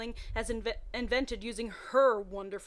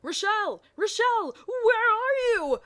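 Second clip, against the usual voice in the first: calling out; 12 semitones higher, 9 dB louder than usual. Acted. Sirius calling for Rochelle across the forest. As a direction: yell into the woods. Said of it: "called Sirius".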